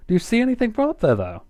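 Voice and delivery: loud, high, fast call. A narrator's reading. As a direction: shout up to the sky. Twilight calling up.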